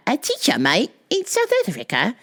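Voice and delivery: put-on shaky stab at an Australian accent; hammed-up Aussie accent; attempted Australian accent. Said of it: "Wait, that's not Australian".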